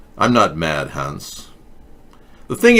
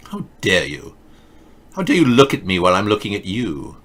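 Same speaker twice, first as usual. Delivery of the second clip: own mock outrage. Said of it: "it's not just her, it's me too".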